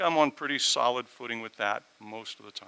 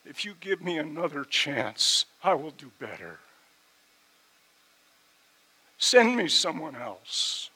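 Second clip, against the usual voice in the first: earnest prayer; 5 semitones higher, 5 dB louder than usual. Retold or imitated. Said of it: "I said, "God".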